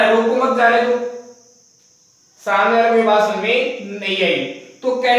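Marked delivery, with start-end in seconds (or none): 0.2-1.0 रोको मत जाने दो read straight through with no break; run together without pause. Shown as a demonstration. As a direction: say रोको मत जाने दो as one unbroken string. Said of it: "कुछ समझ में ही नहीं आया". (रोको मत जाने दो बिना रुके, एक साँस में)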